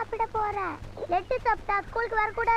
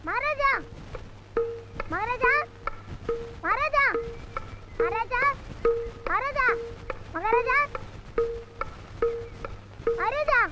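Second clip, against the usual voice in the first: calling out; 5 semitones higher than usual. Acted. Boy calls out for king.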